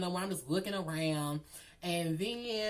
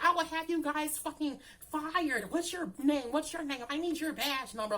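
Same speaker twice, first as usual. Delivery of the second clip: high-pitched imitation of a crying complainer; mock tearful outrage; 9 semitones higher than usual. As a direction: threaten through pretend boohooing. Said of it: "she's crying. She's boohooing. She's like".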